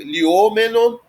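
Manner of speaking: liomenon stressed on the o, before me; accent moved back. Shown as a demonstration. Teacher showing the neuter form, liomenon stressed on o. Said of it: "Volta, né, um pouquinho".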